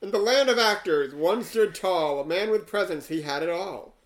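rhythmic verse reading, lines leaning hard on their openings; poem recitation. Acted. Host reading an AI poem about Yul Brynner, measured recitation. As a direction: recite a rhyming tribute line by line. Reads the rhyming poem aloud.

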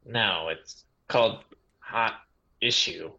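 confused, with gaps between words. Acted. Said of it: "He frowned confusedly".

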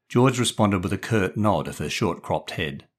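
plain reading voice

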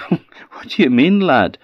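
father's voice. A narrator's reading. Father puzzled.

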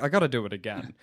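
low, quiet weary God; lightly voiced weary deity. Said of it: "'cause God's like".

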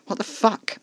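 high startled cry; jolted back in shock; alarmed shout. A narrator's reading. Thrown into the headrest, crying out in alarm. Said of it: "with a shout of alarm".

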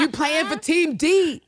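high, slow, laughing rap-lyric voice; sing-song it like a rap line, grinning; a rapper's lyric. Retold or imitated. Podcaster hamming up Carolyn as a rapper's lyric, high and slow. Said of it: "Like a rapper's lyric".

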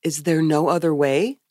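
lightly voiced empty-headed innocent asking; a hint of vacant wonder; blank Eve. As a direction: ask it blankly with a questioning lift. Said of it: "with blank face".

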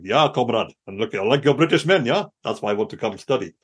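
a deliberately bad, lightly put-on Russian accent; mock Russian student, hammed up in a bad Russian accent; terrible Russian accent. Jokingly playing a Russian spy applying to Cambridge, in a bad Russian accent. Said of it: "terrible accent".

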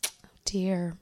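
steady read-aloud of the submitted story; reading a letter aloud. Acted. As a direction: read the listener's letter to the audience. Reads listener's letter aloud.

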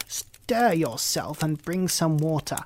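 a lightly voiced impatient witch. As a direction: push her to hurry, with a threat. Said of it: "she said to the girl".

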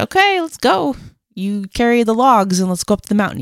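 casually game, pitched high at the start; breezy, unbothered Abraham. Retold or imitated. Imitating Abraham setting off up the mountain, breezy and cool. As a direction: toss it off as if nothing is wrong. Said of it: "Abraham was so cool".

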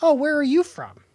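mock surprise. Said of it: "Occasionally you'll get, like".

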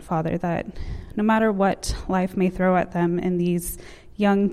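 earnest prayer voice. Acted. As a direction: pray it softly and sincerely. Leads a prayer over students.

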